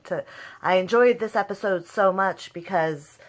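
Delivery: ordinary delivery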